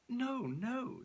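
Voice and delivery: the Countess denies it, insistent; vehement denial. A narrator's reading. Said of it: "the Countess assured him vehemently".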